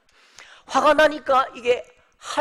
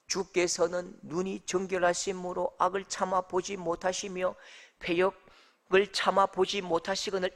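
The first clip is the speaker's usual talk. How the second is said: monotone, softer, uninvolved recital; dull verse reading; 4 semitones lower, 5 dB quieter than usual. Shown as a demonstration. Preacher shows how reading verse thirteen gets boring, dull recital. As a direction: read it out evenly with no feeling. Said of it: "이렇게 하면 이게 재미가 없는 거예요".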